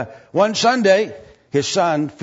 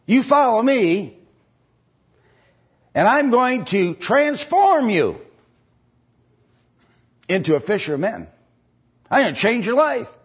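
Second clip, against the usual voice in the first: quoting Jesus; 9 semitones higher, 4 dB louder than usual. Retold or imitated. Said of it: "He said".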